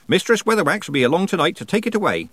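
high-pitched Nanny voice; practical old witch. A narrator's reading. Nanny promises the old man relief, brisk. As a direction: reassure the patient briskly.

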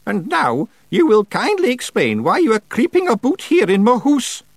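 high, commanding witch voice; stern old witch. Acted. Witch orders Feegles to attention, stern. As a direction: order them about in high Scots-tinged tones.

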